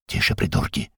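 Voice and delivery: hissed whisper, no voice. Acted. Blinded man hushing the soldiers, hissed whisper. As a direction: hiss it sharply under your breath. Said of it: "зашипел мужик".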